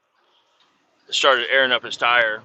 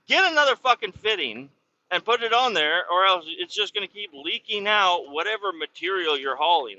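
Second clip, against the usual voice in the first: raised-pitch retold scolding; irritated orders; 4 semitones higher than usual. Driver telling the kid to change the fitting, irritated. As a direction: lay down the order with irritation, voice lifted. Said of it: "It got me real irritated".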